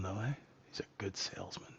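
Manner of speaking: whispered aside. Real, not acted. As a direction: whisper it to yourself. Aside on the dodgy CEO.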